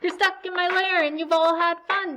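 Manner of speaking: grumpy bear. Acted. Woken bear complains to the party guests, loud and grumpy. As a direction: grumble like a cranky woken bear.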